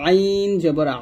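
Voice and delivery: আইন জবর আ from mid-throat, pressed; throat sound with pressure. Shown as a demonstration. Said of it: "গলার মাঝখান থেকে একটু চাপ দিয়ে". (গলার মাঝখান থেকে চাপ দিয়ে আইন জবর আ)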